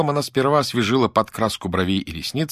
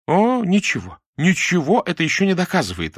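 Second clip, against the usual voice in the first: dismissive rejection; 9 semitones higher, 3 dB louder than usual. A narrator's reading. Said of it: "отвергла Муза".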